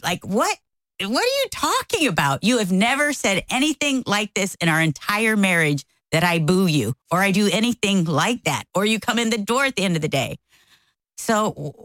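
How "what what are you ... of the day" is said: shocked disbelief. Retold or imitated. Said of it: "I am shocked out of my mind".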